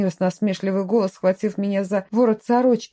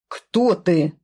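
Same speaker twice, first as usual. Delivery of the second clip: roar. A narrator's reading. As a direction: bark the question at her. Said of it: "взревел". (сдержанный рык)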